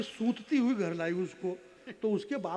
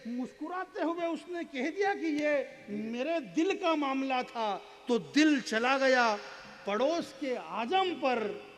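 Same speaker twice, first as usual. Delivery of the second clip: raised, stretched-out verse delivery; poetry recitation; 4 semitones higher, 4 dB louder, slower than usual. Acted. Poet delivering the girl's answer to the audience, raised recitation. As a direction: let the closing words ring out slowly.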